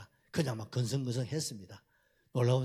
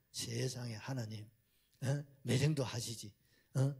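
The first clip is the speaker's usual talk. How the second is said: sulky complaint. Retold or imitated. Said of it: "막 또 달라드는 거예요".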